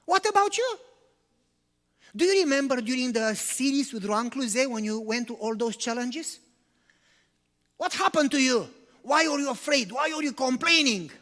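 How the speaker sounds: acted frustrated questioning; a little frustrated. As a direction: confront the pastor, mildly exasperated. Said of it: "get a little frustrated".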